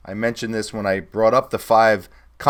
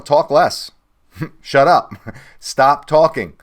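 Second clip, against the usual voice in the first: laughing; 4 semitones higher, 6 dB louder, slower than usual. Real, not acted. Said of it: "laughs while telling reps".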